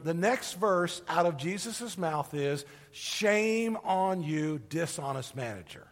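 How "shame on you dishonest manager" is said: slow, low, drawn-out reproach; mock-stern rebuke that fades away; scolding. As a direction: wag a finger at the cheat, slowly. Expected scolding verse, acted.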